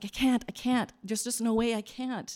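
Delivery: mock imploring, beseeching, begging cry. Retelling the parable, the speaker voices the servant before the king, imitating pleading. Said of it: "he's pleading".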